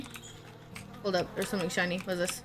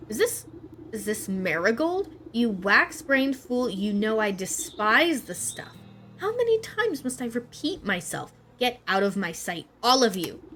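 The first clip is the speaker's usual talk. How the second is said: angry queen. Acted. Queen rejects marigolds angrily.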